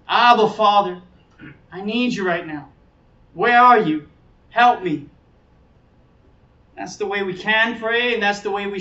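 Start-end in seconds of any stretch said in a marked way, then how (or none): 0.1-5.1 urgent plea, partly raised voice; calling out. Acted. Child of God appealing to the Father, calling out. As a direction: call out for help, punching some phrases. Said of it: "You can call out to God".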